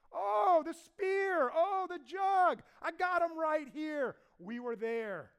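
high, loud gloating shout; triumphant taunt. Acted. David shows Abner the spear and jug, loud gloating shout. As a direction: wave the trophies and crow.

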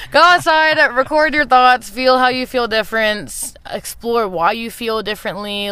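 rally the listeners; excited urging. Real, not acted. Urging listeners again after a laugh.

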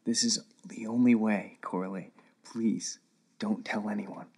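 very soft, low half-whisper; quiet plea. A narrator's reading. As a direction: plead in secret, barely voiced. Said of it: "said Max quietly".

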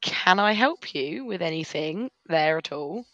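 mock-helpful shop-assistant voice; customer service voice. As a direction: put on the polite shop voice to confront her. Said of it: "I'm like".

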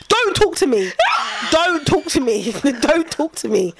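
touch of exasperation, amused underneath; mock angry mum. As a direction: lightly play a mum cutting the child off. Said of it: "I'd be so angry".

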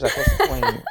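high squeaky laughing question. Real, not acted. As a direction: toss it off through a laugh. Laughing dismissal of own Shona.

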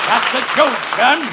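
loud joke bark. Acted. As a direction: blare it like a blowhard. Foghorn-style loud delivery.

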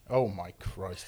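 slow breathy whisper; hushed dread before the shot. Real, not acted. Bracing to drink mezcal.

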